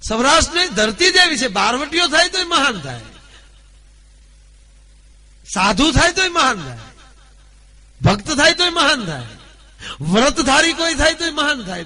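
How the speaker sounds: loud, high declaiming refrain; high-pitched preacher's chant, each line hammered home; rousing oration. Acted. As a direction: proclaim it to the crowd with full force.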